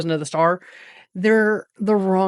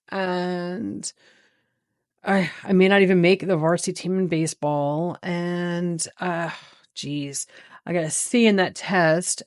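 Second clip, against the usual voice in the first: mock self-pity. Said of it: "What feels better?".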